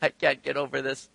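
low, softly marvelling; overwhelmed amazement. Retold or imitated. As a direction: let it out quietly, overcome with wonder. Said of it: "just kinda laugh it off".

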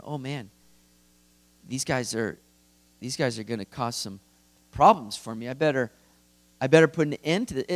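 low, hesitant muttering of mild alarm; mock worried. God fretting over the builders, mock worried. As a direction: lightly pretend to feel threatened, voice dropped. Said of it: "a little bit threatened".

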